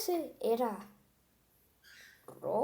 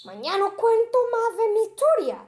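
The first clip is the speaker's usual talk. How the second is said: high, loud sign-off call; cheery goodbye; 9 semitones higher, 7 dB louder than usual. Acted. Monster says goodbye to the viewers, high and loud. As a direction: wave them off brightly.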